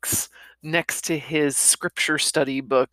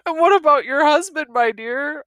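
louder, reproachful vicar; 10 semitones higher, 4 dB louder than usual. Acted. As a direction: chide her gently but firmly. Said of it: "I said reproachfully".

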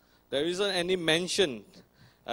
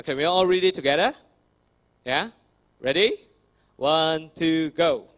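loud call; 2 semitones higher, 7 dB louder than usual. Real, not acted. Calling congregation to read.

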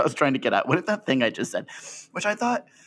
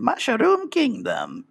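slow, much higher mock Chris Pratt; Chris Pratt impression; 12 semitones higher, much slower than usual. Mocking the actor's casting, slow and higher. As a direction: drag it out like a bland movie star. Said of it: "I can just hear him saying".

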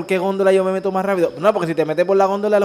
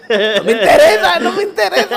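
mock brush-off; 11 semitones higher than usual. S1 acts out a brush-off reply.

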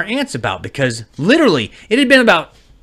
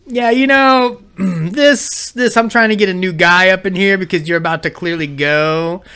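mock impatient wife; 3 semitones higher, 3 dB louder than usual. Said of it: "for my wife to be like".

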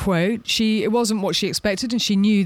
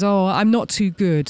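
playing the victim; 3 dB louder than usual. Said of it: "play the victim card".

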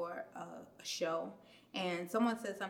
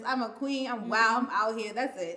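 higher, louder proud declaration; mother claiming her daughter's advice, proud and bold; confident queen; 4 semitones higher, 9 dB louder than usual. Retold or imitated. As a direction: own it like a wild queen. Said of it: "go be the wild queen".

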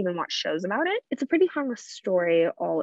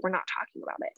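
hushed shutdown; 7 dB quieter, faster than usual. Retold or imitated. Grandma on seeing the board, softly shutting it down. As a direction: lightly imitate a hushed, closed-subject reply.

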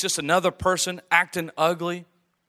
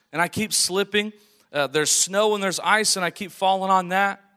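breathless at high altitude; 3 semitones higher, 4 dB louder than usual. Acted. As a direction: gasp the words out, short of air. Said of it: "and he's out of breath".

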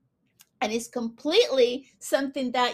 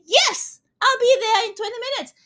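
higher, louder, fast eager reply; eager yes; 8 semitones higher, 6 dB louder than usual. Retold or imitated. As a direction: snap up the invitation brightly and quickly. Acted eager acceptance of invite.

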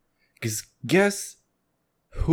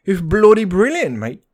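mock Irish accent; 5 semitones higher, 7 dB louder than usual. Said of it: "trying doing the Irish accent".

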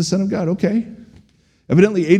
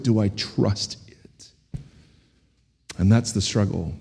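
hushed confession; 9 semitones lower, 8 dB quieter than usual. Real, not acted. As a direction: drop low and soft, asking it inwardly. Confesses his own doubt.

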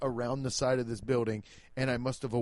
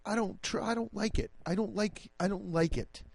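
mock scared whimper; 6 semitones higher, 4 dB quieter than usual. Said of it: "I'm still like".

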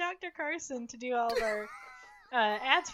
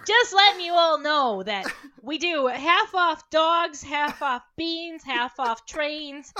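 Doctor Carson ad voice; 7 dB louder than usual. Acted. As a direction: hype up the clinic like a late-night ad. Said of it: "the Doctor Carson impression".

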